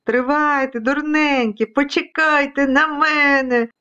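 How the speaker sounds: hammed-up storybook roar; roaring vacuum cleaner. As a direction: bellow slowly after the runaways. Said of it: "ревів пилосос".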